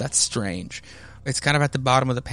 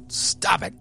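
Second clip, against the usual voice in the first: raised-pitch mock scolding; angry husband, imitated; 4 semitones higher than usual. Maury ordering wife and baby to stop, imitated anger. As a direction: act out a harsh order to stop.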